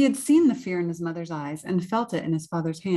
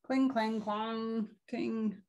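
higher, fading metallic noises; soft clanking; 5 semitones higher, 7 dB quieter, much slower than usual. Acted. Knights chasing dragon away, light clanking. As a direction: chime the clanks, getting softer.

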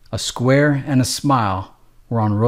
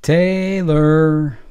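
calling a name; 4 semitones higher than usual. Acted. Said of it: "She was calling out names".

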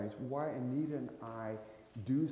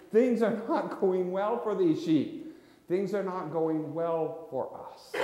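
God's lament; 6 semitones higher, 8 dB louder, slower than usual. Acted. God speaks about the sheep.

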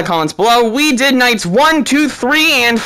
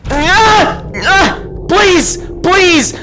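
desperate begging; 5 semitones higher, slower than usual. Real, not acted. Player begging the children to scream so night ends. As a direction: beg the clock to hit six.

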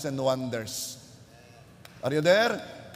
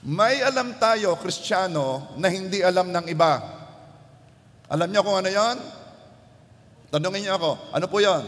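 rising louder, pushing the congregation; fervent preaching; 2 semitones higher, 4 dB louder than usual. Acted. Pastor rousing the church to answer back. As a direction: build the fire and drive it home.

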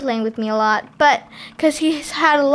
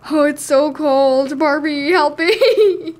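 laughing plea; 2 semitones higher, 3 dB louder than usual. Acted. Doll pleads, laughing.

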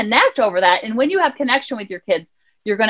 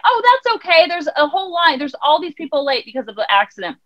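cheery receptionist; 4 semitones higher than usual. Retold or imitated. School receptionist voiced.

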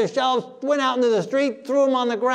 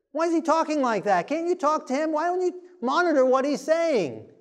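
lightly mimicked fretful follower, higher-pitched; mock complaining; 3 semitones higher than usual. Follower begging Peter to rein him in, mock complaining. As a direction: plead in mock dismay at his bluntness.

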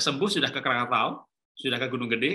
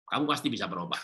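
lower-pitched calm encouragement; gentle assurance; 5 semitones lower, faster than usual. Shown as a demonstration. Father assuring his child they can change, gentle assurance. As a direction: drop the pitch and reassure. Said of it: "memberikan keyakinan".

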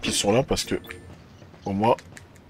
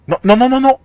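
high, loud panicked no's; desperate shout; 9 dB louder than usual. Real, not acted. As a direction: yell in real despair. Losing items in game.

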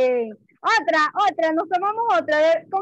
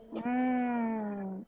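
scared; 5 semitones lower, much slower than usual. Shown as a demonstration. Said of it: "tengo miedo".

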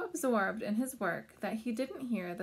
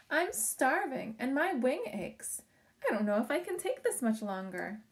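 weary; 5 semitones higher, 3 dB louder than usual. Acted. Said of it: "Crickwing panted".

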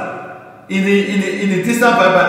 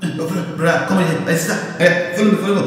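dismissive usher; much faster than usual. Retold or imitated. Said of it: "that poor brother that come to church".

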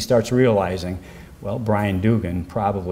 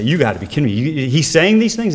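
mild disbelief, pitch jumping up on the second question; retold flipping out; 4 semitones higher than usual. Lawyer reacting to news of a confession, mildly incredulous retelling. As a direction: retell your own incredulous reaction, rising higher. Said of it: "Well, I flip out".

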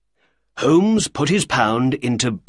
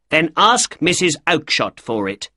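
angry retort; 5 semitones higher than usual. Acted. Shopkeeper snapping at the little man, angry. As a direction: brush him off angrily.

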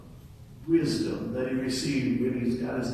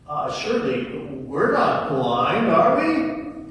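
indignant disbelief; 7 dB louder, slower than usual. Acted. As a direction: balk at the very idea. Pharisees question Jesus indignantly.

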